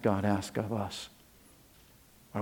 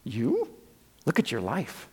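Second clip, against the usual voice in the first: softer, dropping to an unvoiced stop it; hushed reproach to a whiner; Paul's quiet rebuke; 5 dB quieter than usual. Paul quietly rebukes the whining preacher, hushed. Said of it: "And Paul would say".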